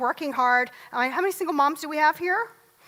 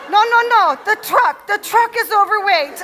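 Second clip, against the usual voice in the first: emphatic correction; 6 semitones higher, 8 dB louder than usual. Retold or imitated. Mover corrects her misunderstanding.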